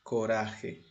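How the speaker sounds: "Coraje" stressed on "ra"; stress on middle syllable. Shown as a demonstration. Teacher answering which syllable is tonic, "Coraje" stressed on "ra". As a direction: let "ra" carry the word "Coraje".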